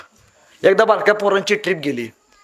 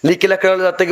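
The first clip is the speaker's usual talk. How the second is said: ordinary delivery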